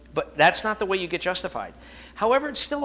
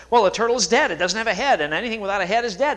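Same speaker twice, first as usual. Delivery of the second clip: a touch louder, insistent, arguing the point; arguing Irishman; 4 semitones higher, 5 dB louder, faster than usual. Retold or imitated. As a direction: Mike insists to Pat the turtle is dead, mock-arguing. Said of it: "And Mike said".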